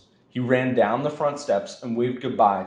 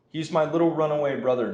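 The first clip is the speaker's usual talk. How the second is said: pitched higher, sweetly fake for the crowd; silky, false voice; 6 semitones higher, faster than usual. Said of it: "in a silky, false voice".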